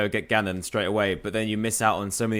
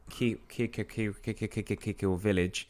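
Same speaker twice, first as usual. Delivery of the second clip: stuck on the first syllable; stuttering; 2 semitones lower, 10 dB quieter than usual. Pretend. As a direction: stammer it over and over.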